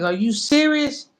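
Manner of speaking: can't believe the fight offer; retold disbelief. Retold reaction to Gatti fight.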